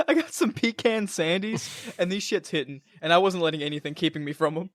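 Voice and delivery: words round a bite of cookie; chewing while talking. Real, not acted. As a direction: talk while still chewing. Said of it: "I'm gonna stop chewing into the mic now".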